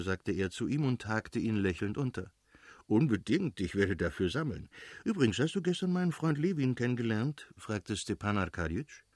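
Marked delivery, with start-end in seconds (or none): 2.9-7.5 lightly voiced lively friend, swooping pitch; eager agreement, then a higher question; exuberant Oblonski, eager. Friend asks after meeting Levin, lightly exuberant.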